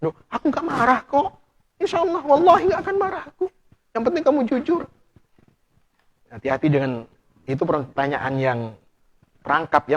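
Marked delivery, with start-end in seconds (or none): 0.0-4.8 high, sweet mock-innocent wife; coaxing wife voice. Wife coaxing her husband to confess, in a higher sweet voice. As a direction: lure him in with a higher sugary voice.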